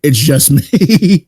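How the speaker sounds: slow, drawn out through a laugh; amused laughing. Real, not acted. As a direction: break into laughter as you say it. Amused by co-host's audio glitch.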